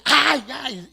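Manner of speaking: cry out. Retold or imitated. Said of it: "y gritas, ¿no?".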